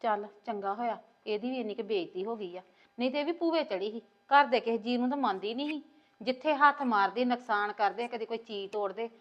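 soft private grumble; talking to herself. Acted. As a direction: keep it low, for your own ears. Talking to herself after visitor leaves. (ਆਪਣੇ ਆਪ ਨਾਲ ਹੌਲੀ ਆਵਾਜ਼ ਵਿੱਚ)

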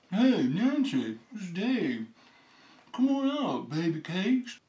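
put-on swagger, swooping up in pitch. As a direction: call out with exaggerated youthful swagger. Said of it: "Sort of a swagger in my voice".

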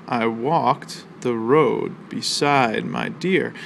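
very slow, even read of the whole line; drawn-out recital of one verse line. Shown as a demonstration. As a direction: say the line slowly so the class can hear the beats. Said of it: "we have four emphasized syllables".

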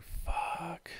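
breathy whispered fuck; hushed dismayed curse. Retold or imitated. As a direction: whisper it under your breath in dread. Dreading mom call.

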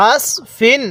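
আস with a heavy emphatic স, not a thin সিন; heavy sad sound. Shown as a demonstration. Teacher demonstrates the correct Quran letter to students, heavy sad. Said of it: "এটাকে সিন পড়ব না, অবশ্যই এটাকে আমরা সদ পড়ব".

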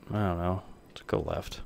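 hushed whisper while hiding. Real, not acted. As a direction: breathe it out unvoiced.

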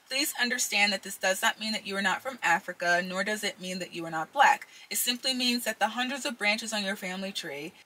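reading aloud with a retainer in; words slurred around a retainer; wearing a retainer. Real, not acted. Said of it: "I've also got my retainers in".

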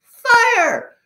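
very high battle cry; shouted command. A narrator's reading. Pox orders the army to launch, shouting. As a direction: yell the order at a high pitch. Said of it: "Pox gave the command".

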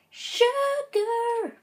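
frustrated exclaim. Real, not acted. Mistake while placing blocks.

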